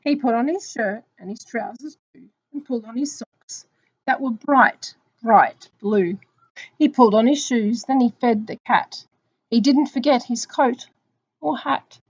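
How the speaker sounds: measured, expressive picture-book reading; story narration. Acted. Teacher reading Mister Magee to children, story narration. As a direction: read it out for young children.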